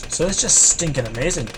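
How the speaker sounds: faint Irish lilt creeping in; slight Irish accent. Real, not acted. Player enthusing about his game towers, slight Irish accent. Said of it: "trying to say that with an Irish accent".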